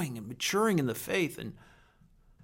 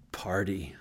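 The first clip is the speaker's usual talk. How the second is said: whispered punchline; 9 semitones lower, 7 dB quieter than usual. Acted. Punchline of grace, no penalty.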